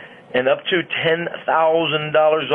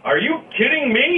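much higher, put-on catchphrase voice; John Londoff impression; 11 semitones higher than usual. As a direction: exclaim it high, as a showy catchphrase. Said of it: "your best impression of John Londoff".

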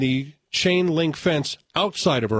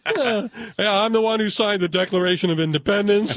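put-on slurred drunk boast, higher; 6 semitones higher than usual. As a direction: lightly play a rambling drunk. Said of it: "the drunk voice".

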